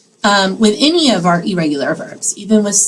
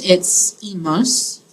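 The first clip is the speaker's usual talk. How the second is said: slow dictation; slower than usual. Shown as a demonstration. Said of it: "For the we form".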